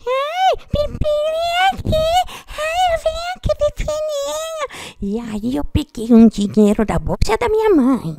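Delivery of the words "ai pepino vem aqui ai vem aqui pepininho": high, cooing seductive call; flirty female parakeet. Retold or imitated. Lady parakeet calling Pepino over, high and cooing. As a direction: lure him over sweetly, pitched up. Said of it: "uma periquita me falando assim".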